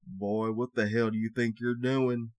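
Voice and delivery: slow southern holler; angry redneck voice. Retold or imitated. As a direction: bark it like an angry old redneck. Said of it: "your voice is funny".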